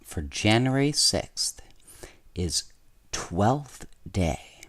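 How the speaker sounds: put-on gentle storybook narration for kids; bedtime story reading. A narrator's reading. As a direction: read it like a bedtime story to children. Reads a bedtime story aloud.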